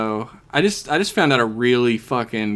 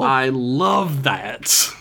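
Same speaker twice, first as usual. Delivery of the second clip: drawn-out amazement; much slower than usual. Real, not acted. Marveling at fun fact.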